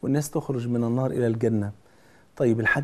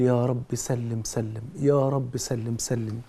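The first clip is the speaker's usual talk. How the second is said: slow pleading prayer; 2 semitones lower, 3 dB quieter, slower than usual. Retold or imitated. Prophet praying beside the bridge.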